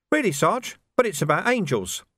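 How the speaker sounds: high, surprised youthful voice; puzzled young recruit. Acted. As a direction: naively question the sergeant. Young Sam puzzled by the song.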